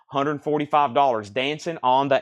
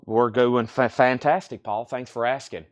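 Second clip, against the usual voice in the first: out of breath; 3 semitones lower than usual. Real, not acted. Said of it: "I am already out of breath".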